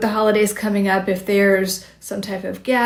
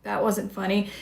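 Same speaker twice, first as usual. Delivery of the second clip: deadpan; 5 dB quieter than usual. Shown as a demonstration. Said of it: "look at them kind of deadpan".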